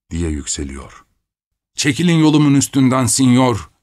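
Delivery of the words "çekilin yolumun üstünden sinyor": loud commanding shout. A narrator's reading. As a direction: bellow him out of the way. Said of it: "diye avaz avaz bağırıyorum". (avaz avaz bağırarak)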